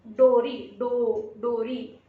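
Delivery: डोरी with a long open o, loud; clear o in dori. Shown as a demonstration. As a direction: stress the o in डोरी. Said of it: "और".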